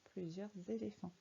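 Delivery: Plusieurs éléphants with the S linked as a Z, "plusieur-zéléphants"; with liaison. Shown as a demonstration. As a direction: join the S of Plusieurs onto éléphants. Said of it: "On peut même faire la liaison".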